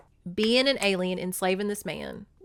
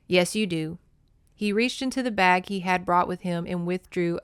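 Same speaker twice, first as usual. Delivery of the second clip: steady, even book-reading voice; story reading. Acted. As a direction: read the passage like an audiobook. Reads book passages aloud.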